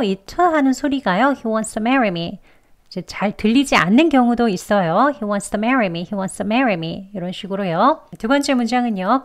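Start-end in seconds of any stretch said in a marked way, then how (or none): 1.4-7.1 He wants to marry me with the t almost dropped; fast weak t. Shown as a demonstration. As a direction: rush wants to, t nearly silent. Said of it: "더 빨리 약하게 발음을 하면요".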